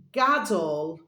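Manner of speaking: halting first attempt at a hard word; stumbling try. Shown as a demonstration. Host stumbling over a tricky element name for viewers. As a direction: trip over "Gadol" and stop short. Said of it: "So I'm gonna say it first".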